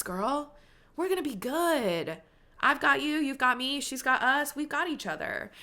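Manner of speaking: tender reassurance. Real, not acted. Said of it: "Oh, I'm getting emotional".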